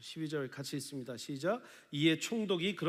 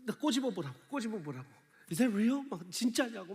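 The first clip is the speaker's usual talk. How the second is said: a touch higher, delighted disbelief; imitating amazement; 5 semitones higher than usual. Quoting a pastor amazed by a present, lightly raised. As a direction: play a pastor who can't believe his gift. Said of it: "설림 목사님 그러죠".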